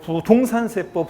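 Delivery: slow "부동산 세법" with 동 high and loud. Shown as a demonstration. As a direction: hit 동 hard in "부동산 세법". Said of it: "이거 못하면 음치라고 했잖아요". ("부동산 세법"에서 "동"을 높고 세게)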